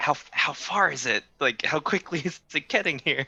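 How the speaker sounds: quick, urgent, hushed whisper. Player speaking in character after casting invisibility, urgent whisper. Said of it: "I whisper like".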